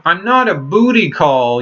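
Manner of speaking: lightly mocking, sarcastic retelling. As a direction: imitate her sarcastic brush-off. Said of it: "really sarcastically, with a sarcastic tone".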